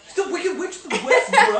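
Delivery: squealing with laughter, high; words squeezed out through laughs; laughing. Real, not acted. Laughing while explaining the clip.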